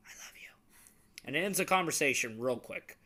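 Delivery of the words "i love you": soft reassurance. Retold or imitated. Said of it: "I'll be like".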